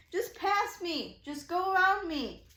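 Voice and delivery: high, loud pleading, stretched out; retold hysterical. Stranded driver begging cars to go round, retold hysterical. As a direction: act out begging drivers in a panic. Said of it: "hysterical. I'm, like, freaking out".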